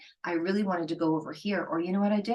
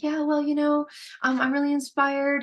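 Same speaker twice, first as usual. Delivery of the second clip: making excuses; 9 semitones higher, 3 dB louder than usual. Retold or imitated. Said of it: "I'm like".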